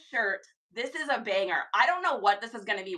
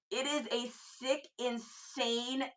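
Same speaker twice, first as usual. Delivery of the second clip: building hype; much slower than usual. Real, not acted. Hyping a thrift find.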